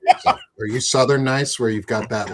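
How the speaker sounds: normal talking voice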